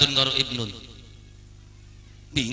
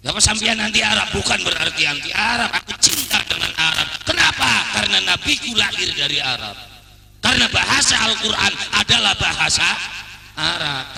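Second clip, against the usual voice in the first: loud, higher-pitched emphatic declaration; forceful sermon delivery; impassioned preaching; 5 semitones higher, 5 dB louder than usual. Real, not acted. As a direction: drive each point home to the congregation. Preacher forcefully declares love for Arab.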